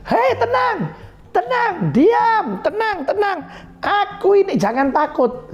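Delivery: high, gently soothing voice of Jesus; calm the frightened disciples. Acted. Jesus calms his disciples in the storm, soothing. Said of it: "Baru Yesus bilang".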